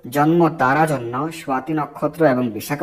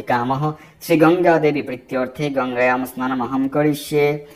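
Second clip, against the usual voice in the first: measured devotional recital; mantra recitation. Acted. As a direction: intone the mantra as a prayer.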